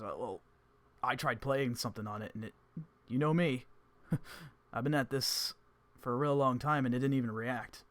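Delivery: frustrated bragging; Gene voice. Acted. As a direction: bard admitting the stone ignored him.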